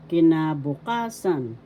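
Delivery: Kinabukasan, loud, with the KA stressed; stress on fourth syllable. Shown as a demonstration. Teacher showing learners the accent, loud Kinabukasan stressed on KA. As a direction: punch out Kinabukasan, leaning on KA. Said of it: "The fourth syllable has the accent".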